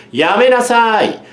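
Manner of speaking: put-on girl stopping the fight; loud stop. A narrator's reading. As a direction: cut them off, drawn out. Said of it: "構造よりも大きな声".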